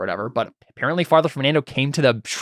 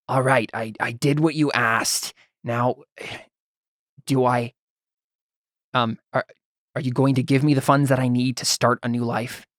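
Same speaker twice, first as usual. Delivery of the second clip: put-on accentless priest. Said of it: "a male's voice ... say".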